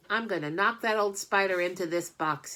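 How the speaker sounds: put-on eager boy voice. Avery voiced in story.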